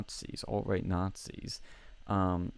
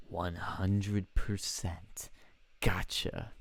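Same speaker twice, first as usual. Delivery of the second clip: whisper; much slower than usual. Retold or imitated. Villain confession, whispered quote.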